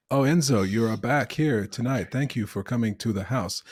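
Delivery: put-on mostly American with a faint Italian accent. Imitating an actress's weak Italian accent, greeting Enzo. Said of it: "it kind of sounds like this".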